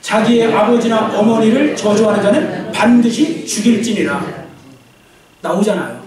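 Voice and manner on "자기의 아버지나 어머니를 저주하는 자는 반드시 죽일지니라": slow, measured Bible reading; slow scripture reading. Shown as a demonstration. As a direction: read it out slowly with the congregation. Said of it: "같이 읽습니다". (천천히 성경 봉독)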